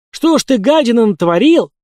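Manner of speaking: high, loud angry outburst; furious cry. A narrator's reading. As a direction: lash out in outrage. Cultists furious at Orlov. (в ярости)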